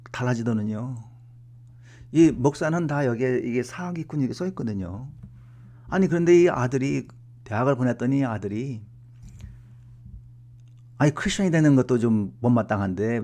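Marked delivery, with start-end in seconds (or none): none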